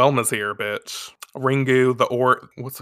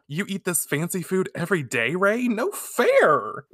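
high, mock-whiny complaint; imitated pouty objection; envious protest; 6 semitones higher than usual. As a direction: play at being jealous, pitch climbing. Acted envious complaint to Rei.

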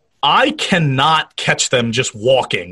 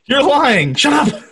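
angry shout; 11 semitones higher than usual. Pretend. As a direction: snap at him to shut up. Voicing the daughter yelling at doctor.

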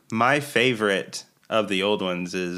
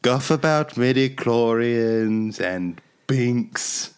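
slow British reviewer read; British accent; slower than usual. Pretend. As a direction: read it like a dry British critic. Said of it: "In a British accent".

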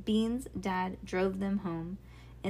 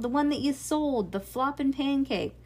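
raised, higher-pitched exasperated voice; yelling; 6 semitones higher, 5 dB louder than usual. A narrator's reading. Dad reminding girls of what they sold, yelling. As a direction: keep yelling, a little less hard. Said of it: "he yelled".

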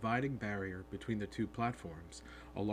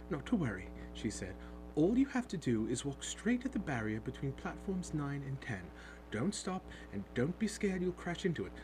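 higher, gentle motherly voice; kind reassuring mum; 5 semitones higher than usual. Acted. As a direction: reassure the scared boy kindly. Mother kindly reassures Harry.

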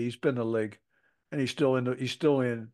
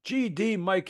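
retold angry yelling; 5 semitones higher, slower than usual. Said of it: "comes screaming at me".

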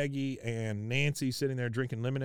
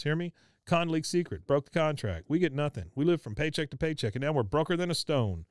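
put-on Laotian accent; 4 semitones higher than usual. Min voiced, upset, in retelling.

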